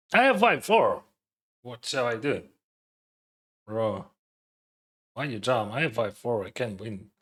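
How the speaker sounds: audible breaths between words; heavy nose breathing. Real, not acted. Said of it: "Stop breathing into the mic".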